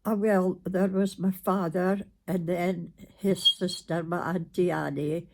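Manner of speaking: ordinary talk, nothing marked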